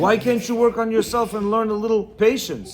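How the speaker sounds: lightly acted smug reproach. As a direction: preach at her like a self-satisfied husband. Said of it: "react smugly and say".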